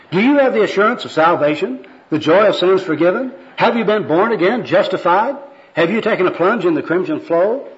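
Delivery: high, lilting string of questions; fervent evangelist patter; earnest gospel worker. Acted. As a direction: sermonize at the man in lofty church talk. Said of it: "this is the second personal worker".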